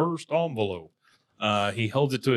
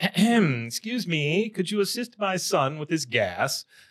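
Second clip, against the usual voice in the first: put-on British accent, pitched up; 7 semitones higher than usual. Retelling what a performer said as a British character, in a British character voice. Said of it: "British characters".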